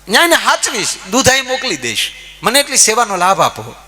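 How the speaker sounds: high, loud eager asking voice; eager disciple pleading. Retold or imitated. Disciple eagerly asks for cow. (ઉત્સાહી શિષ્યનો ઊંચો અવાજ)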